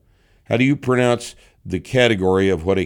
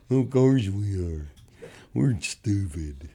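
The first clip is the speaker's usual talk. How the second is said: mock dimwit; 3 semitones lower, 7 dB quieter, slower than usual. Mock dim-witted answer as anti-vegans.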